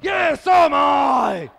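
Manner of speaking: mock shout. Character shouts agreement.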